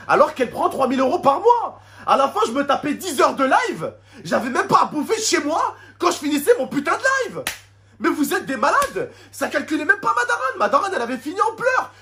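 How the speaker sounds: high, laughing in disbelief; bitter laughing. Real, not acted. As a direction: laugh through the outrage. Laughs bitterly while ranting. (rire amer et aigu)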